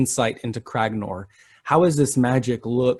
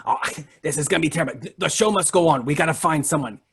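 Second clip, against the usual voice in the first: flustered ringmaster; 3 semitones higher, faster than usual. Acted. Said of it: "He says".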